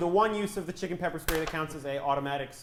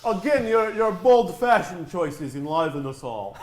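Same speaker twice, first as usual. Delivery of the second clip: put-on Russian accent; 5 dB louder than usual. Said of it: "Russian accents".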